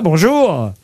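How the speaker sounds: ordinary delivery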